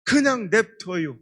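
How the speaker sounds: slow, flat refusal from a country grandpa; stubborn old farmer. Retold or imitated. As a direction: refuse calmly, slowly, out of spite. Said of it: "할아버지 그러더래".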